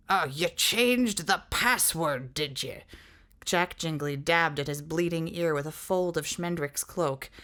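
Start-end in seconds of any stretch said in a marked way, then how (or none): 0.1-2.8 slow menace. Acted.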